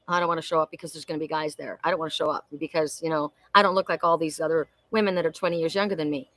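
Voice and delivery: low, soft mock reluctance; reluctant excuse. Imagining passing on the picnic invitation, reluctant mock excuses. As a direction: toss off the excuses low and quiet. Voices excuses she could have made.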